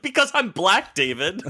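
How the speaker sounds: high-pitched mock scream at a friend; imitating an exasperated friend's shriek. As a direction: yell it back in an exasperated high voice. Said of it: "I will never forget you screaming at me".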